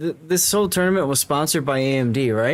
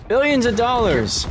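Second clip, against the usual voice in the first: high, slow, drawn-out astonishment; exaggerated gasp at a fortune; mock amazement; 10 semitones higher than usual. Mock awe at huge sum.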